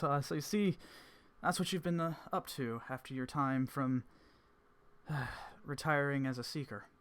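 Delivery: put-on a wry, amused old seeker; Evans voice. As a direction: sage teasing a retired seeker.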